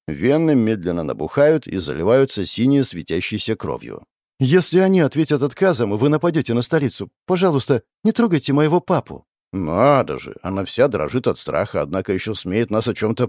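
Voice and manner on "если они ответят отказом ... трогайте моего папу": put-on pleading girl.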